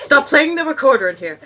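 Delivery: half-laughing, loud telling-off; laughing scold. Real, not acted. Reader scolds a recorder player.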